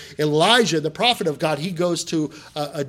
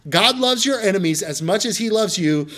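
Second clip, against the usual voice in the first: your stressed, higher and louder; preached emphasis; 5 semitones higher, 5 dB louder than usual. Shown as a demonstration. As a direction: drive the point home. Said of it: "That's what Jesus is saying".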